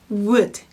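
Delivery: "would" begun with lips gathered as for "will"; one isolated "would" with a strong rounded w. Shown as a demonstration. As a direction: round the lips first, then release "would". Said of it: "입술을 모은 상태에서".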